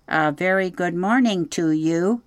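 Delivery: cheerful robot hailing across the water; hearty robot greeting; friendly booming greeting. Acted. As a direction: call out friendly over a pond. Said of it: "the robot's friendly voice boomed".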